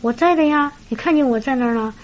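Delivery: lightly imitated bemused protest; taken aback. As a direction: answer as if caught off guard. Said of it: "一愣".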